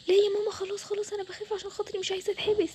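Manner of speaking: acted anxious child's plea; frightened pleading. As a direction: beg mom urgently to stop. Child begs not to be locked up.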